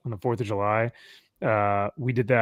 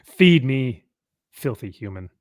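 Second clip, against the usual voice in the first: haughty cat. Retold or imitated. Voicing the cat.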